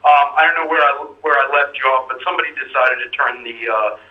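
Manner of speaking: caller's voice through a phone line; over a landline phone. Real, not acted. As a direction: sound like a call on a landline. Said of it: "I'm on the landline".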